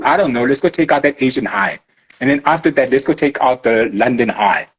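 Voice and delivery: low, lazy mock planning; a hint of a chill hustler scheming; laid-back trader partner. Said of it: "I think they talk like that".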